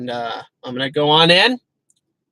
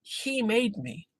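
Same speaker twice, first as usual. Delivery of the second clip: hushed, slow, soft awe; awed whisper; 5 semitones higher, 12 dB quieter, much slower than usual. Retold or imitated. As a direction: breathe it in wonder. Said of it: "You're like".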